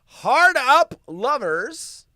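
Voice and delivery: milk the pun slowly; punny emphasis. Pretend. Reading the tabloid pun aloud, slow mock emphasis.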